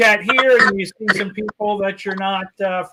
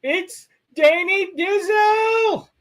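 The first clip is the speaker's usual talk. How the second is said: hype announcer; 10 semitones higher than usual. Acted. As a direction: announce him like a big star. Hyping up a chat supporter.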